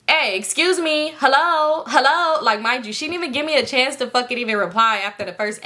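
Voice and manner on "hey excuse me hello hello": higher, louder insistent hello hello; calling out. Retold or imitated. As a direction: call after someone who ignores you. Girlfriend calling after her.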